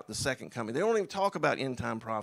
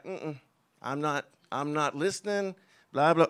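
mock dismissive; 3 dB louder than usual. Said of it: "but you just like".

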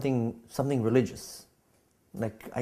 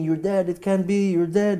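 retold screaming; 6 semitones higher than usual. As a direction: imitate the girl yelling in shock. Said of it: "she's screaming".

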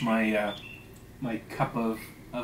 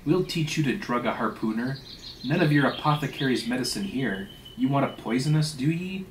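emphatic, mildly heated scolding; accusing. Acted. Stubb accusing the steward of poisoning, indignant. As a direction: press the accusation, lifting on each question.

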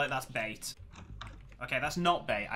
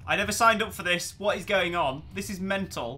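panicked; 4 semitones higher, 5 dB louder than usual. Real, not acted. Panicking on minecart ride.

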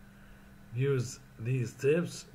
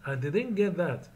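higher, puzzled I didn't get that; confused; 5 semitones higher than usual. Shown as a demonstration. Teacher models saying you missed something, confused. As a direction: admit you missed it, sounding lost. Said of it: "Number four".

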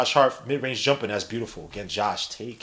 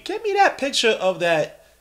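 Joe Rogan; 5 semitones higher, 3 dB louder than usual. Acted. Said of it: "suit to Joe Rogan, but they love doing that".

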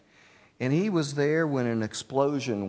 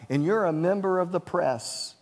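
pleading; 6 semitones higher than usual. Retold or imitated. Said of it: "And he pleaded".

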